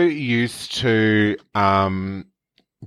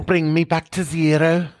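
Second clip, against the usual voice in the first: put-on 1 Scouse accent; 4 semitones higher than usual. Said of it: "do Scouse with me".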